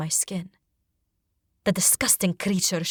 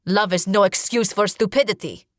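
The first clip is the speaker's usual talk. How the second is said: a touch of contempt, slightly louder; spitting back; 4 dB louder than usual. Acted. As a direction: throw the insult back, mildly. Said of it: "Ruku spits back".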